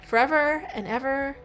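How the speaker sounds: measured, lightly acted narration; story read-aloud. Streamer reads a lover's final vows, story read-aloud. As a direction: read the devoted ending aloud.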